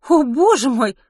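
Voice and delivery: high, loud gasp of words; amazed exclamation. Acted. Ruth sees the huge baby, high amazed exclamation. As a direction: exclaim in wonder. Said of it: "воскликнула Рут".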